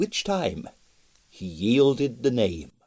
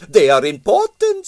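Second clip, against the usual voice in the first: higher, louder critical judgement; 10 semitones higher, 11 dB louder than usual. A narrator's reading. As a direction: pronounce it as an expert. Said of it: "said Strogonoff critically".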